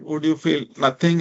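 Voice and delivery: ordinary talk, nothing marked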